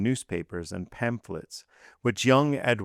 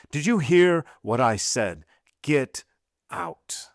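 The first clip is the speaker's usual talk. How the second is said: put-on raised, harsh command to a child; harsh angry shout; 6 semitones higher, 4 dB louder, slower than usual. A narrator's reading. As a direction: bark it at the boy. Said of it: "shouted Villefort so harshly".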